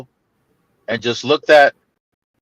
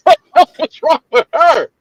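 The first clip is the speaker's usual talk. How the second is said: higher, laughing, incredulous; mock disbelief; 10 semitones higher, 3 dB louder than usual. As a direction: act out a sister who can't believe it.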